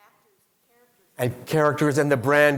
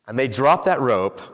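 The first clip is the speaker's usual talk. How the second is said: ordinary delivery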